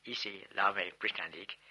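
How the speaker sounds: put-on French spoken with a plain English accent; unconvincing French in an English accent; awful English-accented French. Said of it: "in my awful English accent".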